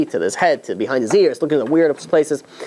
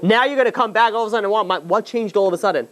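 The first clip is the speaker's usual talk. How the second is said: mildly indignant, higher-pitched retort; mock outrage, speeding up mid-rant; retold protest, lightly acted; 5 semitones higher than usual. Healer indignantly confronts the delegation.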